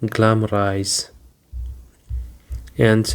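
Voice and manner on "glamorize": "Glamorize" with the weight on GLAM-; stress on first syllable. Shown as a demonstration. Teacher demonstrates where the stress falls, "Glamorize" stressed on first syllable. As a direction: model "Glamorize" as GLAM-o-rize. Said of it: "the stress is on the first syllable".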